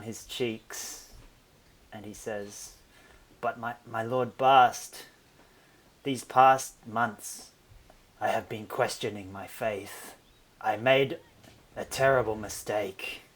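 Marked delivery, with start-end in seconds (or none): 3.4-13.2 tearful confession. Acted. Cohen confessing to Lord Bast, in half-hearted tears. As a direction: confess through mild mock tears. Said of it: "begins crying and tears".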